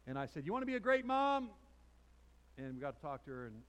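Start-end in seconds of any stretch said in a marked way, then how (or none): 0.4-1.5 high, loud, hammed-up question; excited raised-voice offer; retold eager pitch. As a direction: call it out with preacher's zeal. Retells his eager question to mother.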